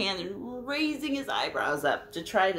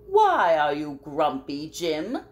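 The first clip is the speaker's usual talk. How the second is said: loud curious bird; 2 semitones lower, 7 dB louder than usual. Acted. Marabou voiced in story.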